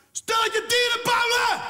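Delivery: high, loud, slow outraged yell; furious shout. Retold or imitated. Friend yelling at the restaurant over dog meat, loud slow outraged shout. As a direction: scream it across the restaurant. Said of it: "hij schreeuwt midden in die zaak".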